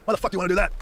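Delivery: high, loud mock outrage; exasperated scolding. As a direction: imitate being chewed out by an old-timer. Retold scolding by the old-timers.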